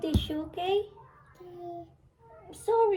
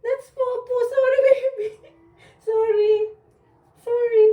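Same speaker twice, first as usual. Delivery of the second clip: higher-pitched, repeated sorry to a little one; apologetic cooing; 4 semitones higher, 3 dB louder than usual. Real, not acted. Parent apologising to a child after a prank, cooing.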